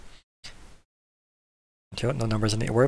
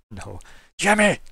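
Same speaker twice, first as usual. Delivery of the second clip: shouting a name; 7 semitones higher, slower than usual. Acted. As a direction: yell it down to the guard tower. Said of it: "he shouts down to".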